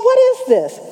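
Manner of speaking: high, startled question; sudden shock at the ceiling; alarmed surprise. Retold or imitated. Ceiling paint suddenly bubbling.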